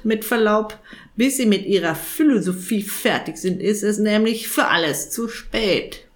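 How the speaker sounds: croaky raven voice, impatient; a lightly voiced raven interrupting; cheeky raven. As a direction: hurry the old man along.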